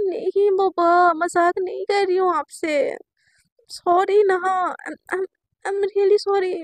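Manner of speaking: slow, pleading, crying on sorry; slow tearful plea. Retold or imitated. Girl pleading with her crush that it's no joke, tearful. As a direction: beg to be believed.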